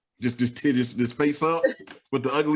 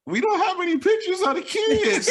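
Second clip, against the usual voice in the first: imitating wife. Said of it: "And she like".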